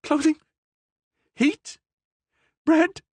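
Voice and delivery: high, incredulous cries; cried out. A narrator's reading. Prisoner crying out to the Cardinal, high and incredulous. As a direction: cry out each word in disbelief. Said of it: "cried the prisoner".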